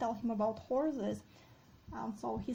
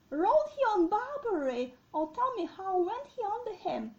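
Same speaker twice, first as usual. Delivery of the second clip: high, louder theatrical questioning; agitated king; 8 semitones higher, 4 dB louder than usual. Acted. Deposed King Richard questions the groom about Barbary, agitated. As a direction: demand it like a wounded king. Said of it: "the king is like".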